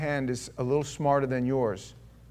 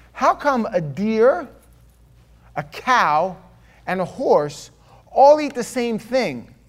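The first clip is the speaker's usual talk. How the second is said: put-on high, slow, earnest child asking a riddle; a child's slow, wide-eyed question; little girl voice; 3 semitones higher than usual. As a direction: spell out the riddle like a clever kid. Girl asks her riddle.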